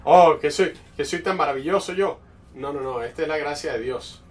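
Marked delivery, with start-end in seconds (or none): 0.0-2.2 mock self-praise. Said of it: "me empecé a sentir".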